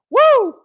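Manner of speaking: loud, high-pitched "woo"; excited whoop. Real, not acted. Host cheering a viewer who caught the live, excited whoop. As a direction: let out a big high whoop.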